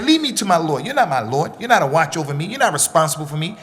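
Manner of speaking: arrogant. Retold or imitated. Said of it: "he would say it like that, arrogantly".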